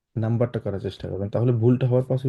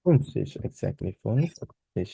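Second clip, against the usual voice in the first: slow approval; 2 semitones lower, much slower than usual. Shown as a demonstration. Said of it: "einhundertfünfundfünfzig".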